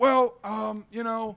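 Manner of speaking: hesitant, evasive, high, slow drawling preacher voice. Retelling a car ride talk about the bible, quoting the man's answer: spot-on impression. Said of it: "that's a spot on impersonation".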